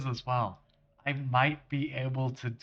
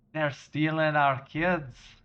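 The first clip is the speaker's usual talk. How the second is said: slow Scottish accent, played for comedy; accidental Scottish accent; 3 semitones higher, slower than usual. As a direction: let a Scottish accent take over, slowly. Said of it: "narration voice has decided to turn Scottish".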